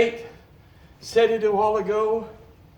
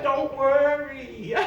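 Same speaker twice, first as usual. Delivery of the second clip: gentle reassurance; slower than usual. Retold or imitated. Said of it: "he said".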